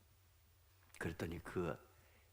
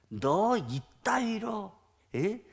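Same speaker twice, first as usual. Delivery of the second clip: retold scolding from an angry general; indignant dressing-down, acted lightly; mild mock yell; 7 semitones higher, slower than usual. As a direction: chew out a subordinate, higher-pitched. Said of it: "이러면서 막 소리치면서".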